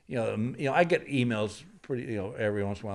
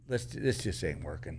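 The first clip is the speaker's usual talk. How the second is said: hushed whispered aside; 6 semitones lower, 7 dB quieter than usual. Retold or imitated. Comic telling a silent crowd it isn't working, whispered. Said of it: "I said".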